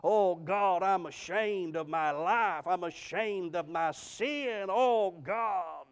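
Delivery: drawn-out, slow cry to God; imitated tearful prayer. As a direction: act out a penitent man's weeping plea, stretched out. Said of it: "he started crying".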